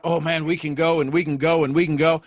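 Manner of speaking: loud, hyped-up voice of the brain; excited brain. Acted. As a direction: play an overeager brain running on and on. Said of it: "But the brain comes out".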